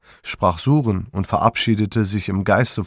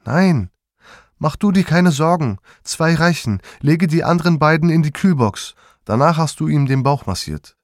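louder, higher, decisive orders; firm commands; 7 semitones higher, 4 dB louder than usual. A narrator's reading. Mother firmly directs her son while reviving father, commanding. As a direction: take command and brook no argument.

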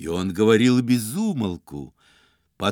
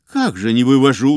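smirking; 2 semitones higher, 8 dB louder than usual. A narrator's reading. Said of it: "усмехнулся Остап".

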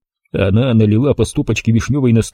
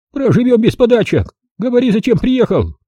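curt; 12 semitones higher than usual. Acted. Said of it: "отрезала".

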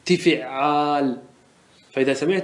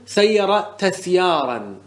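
slow demonstration; 2 semitones higher, much slower than usual. Shown as a demonstration. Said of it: "سمعنا بعض العرب يقول".

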